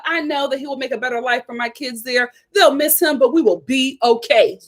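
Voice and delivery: lightly voiced breezy woman; a hint of a calm, sly co-parent; mocking her smooth cover story; imitating baby mama. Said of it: "she's just like".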